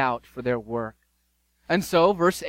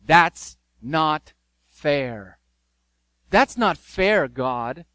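slow, louder whining at God; whiny complaint; 5 dB louder, much slower than usual. Acted. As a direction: sulk like a child crying foul. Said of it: "This is how it sounds in our day and age".

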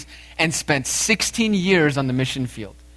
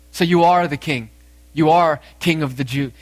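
mildly mocking question, leaning in louder; rhetorical, mocking Pilate; 4 dB louder than usual. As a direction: ask it rhetorically, with a touch of mockery. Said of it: "perhaps he even asked mockingly".

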